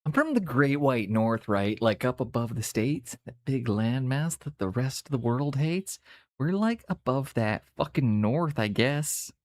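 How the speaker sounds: lightly put-on Canadian accent. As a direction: lay on a casual Canadian accent. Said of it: "we can all turn the accent on".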